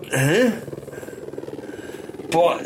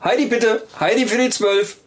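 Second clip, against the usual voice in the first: store announcement. Acted. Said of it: "rede wie eine Kaufhausdurchsage".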